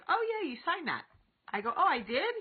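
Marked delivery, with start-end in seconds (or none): 0.1-1.1 put-on high-pitched kid fibbing; mock-innocent child voice; imitating her son. Voices her son's answer, retold. 1.8-2.4 high, louder mock-disbelieving question; exaggerated "oh really?" tone; feigned surprise. Mother's mock disbelief, retold.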